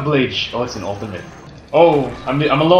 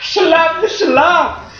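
high, laughing protest; laughing shut up; 11 semitones higher, much slower than usual. Real, not acted. Gamer laughing at teammate's teasing, high. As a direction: shove the words out through laughter. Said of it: "but he's like, "Shut up".

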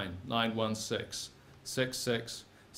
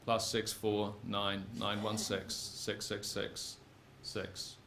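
slow dreading mutter; 5 semitones lower, 9 dB quieter, slower than usual. Acted. Reading the number, dreading it.

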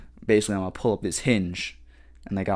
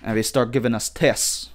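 badly faked British accent; a tentative stab at sounding British; amateur mock-British delivery; attempted British accent. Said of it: "I can't do the accent".

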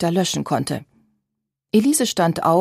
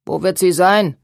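spiteful; 3 dB louder than usual. A narrator's reading. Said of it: "sagte Babette hämisch".

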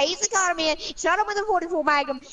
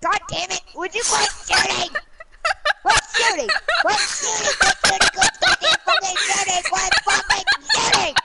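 furious shouting; 5 semitones higher than usual. Real, not acted. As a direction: scream it in frustrated rage. Raging, shouting at teammate.

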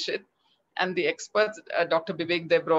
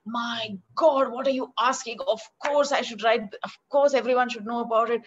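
excited and a touch higher, how can you even ask; amazed outburst; 5 semitones higher, 3 dB louder than usual. Retold or imitated. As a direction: exclaim in eager disbelief. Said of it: "I was like".

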